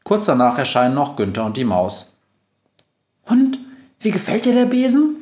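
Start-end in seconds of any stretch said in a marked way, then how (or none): 3.2-5.2 very high, squeaky question; small creature, pitched way up; mouse. A narrator's reading. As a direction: ask eagerly in a little mouse voice. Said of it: "fragt die Maus".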